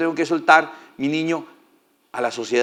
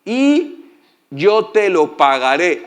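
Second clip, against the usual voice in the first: lordly promise; 2 semitones higher, 3 dB louder, much slower than usual. Acted. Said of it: "dijo la hija del faraón".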